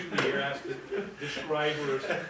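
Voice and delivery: laughing while explaining. Real, not acted. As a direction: chuckle through the words. Judge amused at informal ID.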